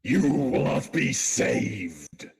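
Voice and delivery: Springtrap voice. Pretend. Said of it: "how I used to do my Springtrap".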